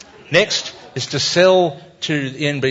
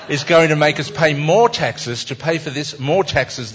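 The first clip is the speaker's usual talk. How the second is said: angry fish; 4 semitones higher, 4 dB louder than usual. Acted. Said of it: "And the angry fish is saying".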